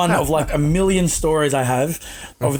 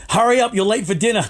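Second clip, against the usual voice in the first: mock yell; 5 semitones higher than usual. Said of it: "I just hear him yell".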